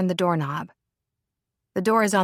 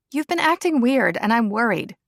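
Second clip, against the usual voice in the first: higher, louder worried friend; 5 semitones higher, 3 dB louder than usual. Acted. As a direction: plead out of concern. Rebecca worried about Lila.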